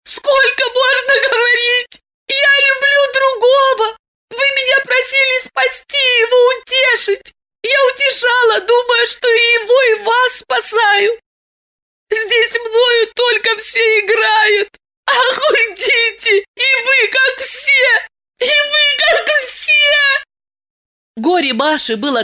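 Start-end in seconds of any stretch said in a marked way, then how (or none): 0.0-16.4 tearful outburst. Acted. Masha lashing out at Diana, high sobbing shout. 16.4-18.1 high, hurt reproach; tearful reproach. Acted. Masha accusing Diana, high hurt reproach. 18.4-19.7 high, full crying shout on вы; shouted reproach. Acted. Masha screaming at Diana, high crying shout. Repeated, louder.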